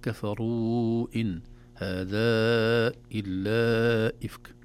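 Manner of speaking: slow tajweed recitation with long vowels; Quran recitation. Shown as a demonstration. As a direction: recite slowly, drawing out each madd. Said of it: "نلاحظ أن هنا تتابع المدود المنفصلة". (تلاوة مجودة بطيئة)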